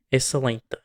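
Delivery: "excelente" with its unstressed vowels reduced. Shown as a demonstration. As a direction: swallow the weak vowels of "excelente". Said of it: "unstressed vowels are usually reduced".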